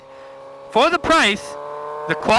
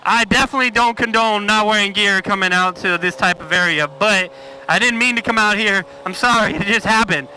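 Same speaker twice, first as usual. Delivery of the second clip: inside a helmet. Real, not acted. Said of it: "You're probably hearing a lot of whistle".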